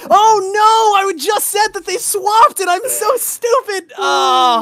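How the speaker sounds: shocked realization, half laughing; embarrassed surprise. Real, not acted. Realizes she swapped team names.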